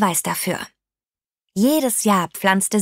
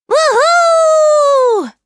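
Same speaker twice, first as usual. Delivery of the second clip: long, high, loud whoop; begeistertes Brüllen; 8 dB louder than usual. A narrator's reading. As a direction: whoop out loud like Tante Rose mid-flight. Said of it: "brüllte Tante Rose". (begeistert gebrüllter Jubelruf)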